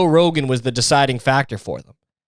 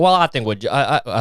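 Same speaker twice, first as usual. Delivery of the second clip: put-on light, improvised Southern accent; 3 semitones lower than usual. Imitating Fauci answering reporters, light Southern accent. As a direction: slip into a half-hearted Southern accent for a quote. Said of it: "started doing a fucking Southern accent".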